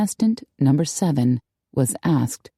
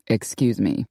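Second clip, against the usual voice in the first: low, through gritted teeth; 6 semitones lower than usual. A narrator's reading. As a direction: force it out through clenched teeth. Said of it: "He gritted his teeth".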